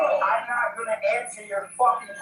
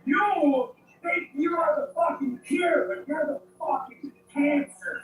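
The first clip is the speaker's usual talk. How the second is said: furious shout; 3 semitones higher than usual. Real, not acted. Arrested man screaming at officer.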